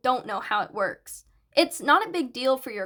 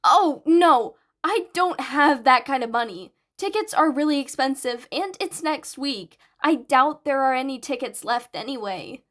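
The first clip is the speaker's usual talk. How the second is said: lightly voiced flustered boy; 4 dB louder than usual. Narrator voices flustered Izuku.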